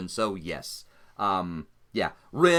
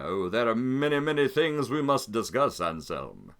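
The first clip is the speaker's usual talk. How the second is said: silky villain Simon; 2 semitones higher than usual. Acted. Simon luring Anselm aboard the Anastasia, sugary menace. GM voices Simon, old acquaintance.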